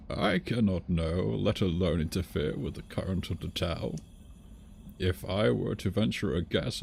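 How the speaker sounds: a hint of a musing old master; old man voice. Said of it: "that goes with my old man voice".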